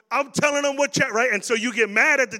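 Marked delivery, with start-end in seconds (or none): 0.1-1.1 higher and louder, cut off; indignant protest. Retold or imitated. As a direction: defend yourself mid-word. Student protests to teacher.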